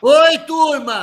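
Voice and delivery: high, slow, drawn-out hello; excited greeting. Real, not acted. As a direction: call out happily to the whole group. Greeting everyone joining the call.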